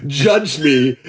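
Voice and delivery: slow, drawn-out mock outrage; mock indignation. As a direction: draw out every word, playfully offended. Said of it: "I would still be so mad at you".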